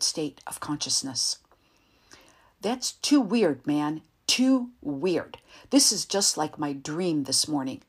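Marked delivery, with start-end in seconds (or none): 2.6-7.8 loud, slow, rattled shout. Acted. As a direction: yell it, shaken by the weirdness. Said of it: "He was still shouting".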